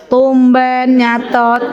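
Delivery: very drawn-out "tumben"; mock catty comment; snide remark. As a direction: imitate a needling friend, dragging each word. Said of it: "gitu ya".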